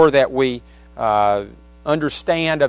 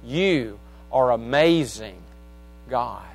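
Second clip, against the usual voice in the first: reciting song lyrics. Real, not acted. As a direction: speak the lyrics like a poem, pausing between phrases. Recites a song's chorus.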